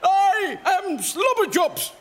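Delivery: ordinary talk, nothing marked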